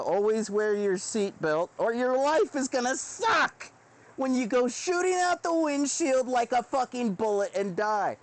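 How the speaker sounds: a hint of the put-on Southern voice; silly accent. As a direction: warn them the folksy way, lightly hammed. Put-on voice for a warning.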